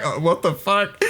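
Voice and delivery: laughing through a shocked quote; laughing mock shock. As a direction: giggle out the shocked line. Quoting Kairi's shocked face.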